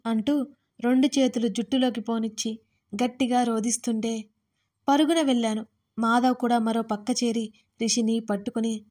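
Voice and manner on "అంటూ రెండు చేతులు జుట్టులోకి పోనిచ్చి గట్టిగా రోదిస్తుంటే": ordinary delivery, nothing marked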